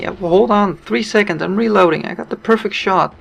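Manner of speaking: excited retold radio chatter; retold reply. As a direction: act out your own calm-down to a panicking teammate. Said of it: "and I'm saying".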